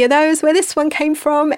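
loud, high spooky voice; scary voice. Pretend. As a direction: play it spooky and menacing. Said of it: "that was a scary voice".

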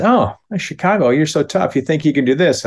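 mock-impressed taunt at the Chicago kid. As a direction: needle him about being tough.

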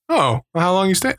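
a hint of an Asian accent asking a stranger. Executive questions him at the conference, faint Asian accent. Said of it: "I had an Asian accent for that".

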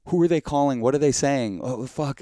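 high, loud mock paranoia; hammed-up nervous panic; imitating panicked clerk. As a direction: play the clerk spiralling in worry. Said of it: "spend the rest of her day like".

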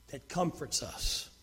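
low, soft reassurance; comforting. Shown as a demonstration. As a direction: let the voice sink gently to comfort. Describes God's comforting way of speaking.

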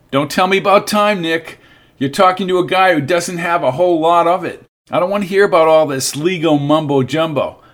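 a touch of desperate irritation; urgent frustration. Acted. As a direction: push back against the lawyer. Alan pushes back at lawyer.

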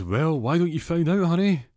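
high, loud, singsong reply; put-on husband voice. Husband answering his wife about the parcel, loud singsong voice.

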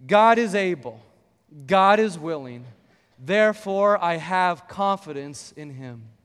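loud, measured declaration with pauses; congregation affirmation. Shown as a demonstration. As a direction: lead the church in a creed, slowly. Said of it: "say these three simple lines with me".

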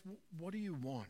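soft, sincere open question; gentle invitation. Retold or imitated. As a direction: ask it softly as an invitation. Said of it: "I think Jesus actually turns around".

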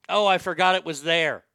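loud fake-innocent excuse. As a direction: play dumb, loudly. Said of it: "I'm gonna say".

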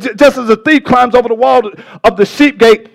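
worked-up pulpit teaching; excited preaching. Real, not acted. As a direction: rush into it, carried away by the point. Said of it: "I'm getting so excited".

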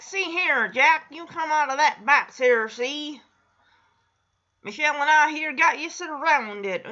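lightly voiced old-movie gangster; a hint of a tough mobster, see; half-hearted tough-guy talk; gangster impression. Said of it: "He does an impression of, like, a gangster".

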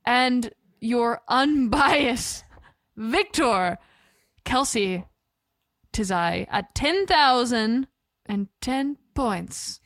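slow, drawn-out winner reveal; announcer voice. Acted. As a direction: build suspense like a game show host. Dramatic score tally announcement.

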